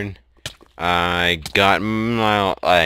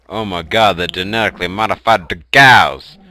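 excited; 6 dB louder, faster than usual. Real, not acted. Shocked game discovery exclaimed.

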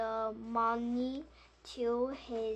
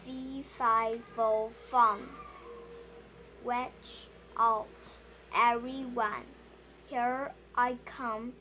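a loud giant's roar, in the reader's own voice; a child's lightly voiced giant, roaring the rhyme; 4 dB louder than usual. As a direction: boom it out like a big giant.

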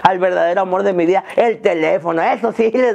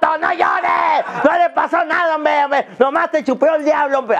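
put-on a mom brushing off a crying child, pitched way up; mock mother soothing; 7 semitones higher than usual. Mother calming fallen child. (mamá calmando al niño caído, con voz aguda y exagerada)

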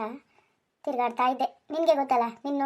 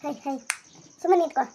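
sharp scold; 2 semitones higher, 3 dB louder than usual. Acted. Husband scolding the cow that lifts its leg, sharp command. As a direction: stop the animal fidgeting.

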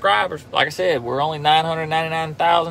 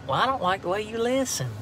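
mock retort; 7 semitones higher, 7 dB quieter than usual.

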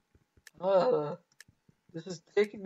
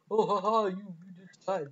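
mocking taunt. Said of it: "I always get called".

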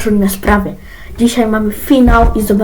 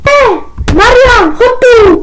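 high loud shout for Marian; mother yelling his name, high and loud; angry call; 10 semitones higher, 6 dB louder, slower than usual. Acted. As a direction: yell him over from another room. Mother summons Marian angrily.

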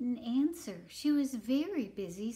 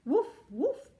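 two short, high, loud woofs; barking dog; 9 semitones higher, 8 dB louder than usual. Acted. Reader plays the dog for children, high barking. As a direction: bark like a little dog. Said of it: "barked the dog".

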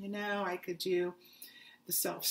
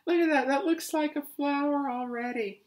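excited; 6 semitones higher, 7 dB louder than usual. Real, not acted. Admiring yarn colour.

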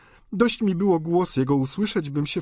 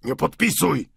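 crying out; 5 dB louder than usual. A narrator's reading. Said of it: "zawołał ojciec Goriot".

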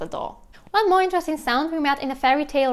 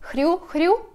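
hriu, hriu said as a pig's grunt; playful hriu, hriu; Russian pig grunt; 6 semitones higher than usual. Shown as a demonstration. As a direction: imitate the pig, rising at the end. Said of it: "So hriu".

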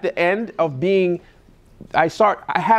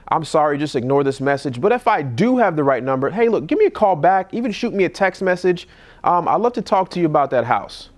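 apologetic voicemail. Shown as a demonstration. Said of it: "That simple".

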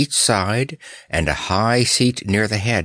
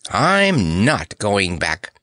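slow, swooping declaration of triumph; savouring the triumph; exultant; much slower than usual. Acted. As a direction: draw each word out exultantly. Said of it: "exulted Snorer".

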